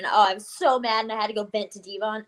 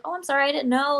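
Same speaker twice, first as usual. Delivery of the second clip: slightly higher, polite retold apology; respectful apology; 4 semitones higher than usual. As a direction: recount a respectful little apology. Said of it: "trying to be really respectful".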